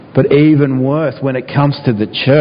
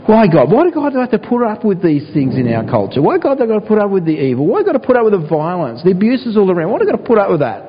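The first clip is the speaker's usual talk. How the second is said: pleading lament to God; 7 semitones higher than usual. Retold or imitated. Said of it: "how often do we think that".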